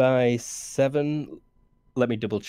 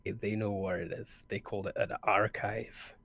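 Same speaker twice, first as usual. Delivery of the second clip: lightly hushed, softened voice; whispering back; 6 dB quieter, slower than usual. Acted. Character reports back to companions on the archive, lightly hushed. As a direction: pass it on discreetly. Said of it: "I'll try and whisper back".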